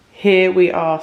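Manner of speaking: echoey room sound; speaking in an echoey empty room; big hall echo. Real, not acted. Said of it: "Sorry for the echoiness".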